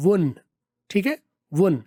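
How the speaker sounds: won't with the t dropped; "won" ending on n; weak won't. Shown as a demonstration. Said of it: "और वीक में क्या होगा?".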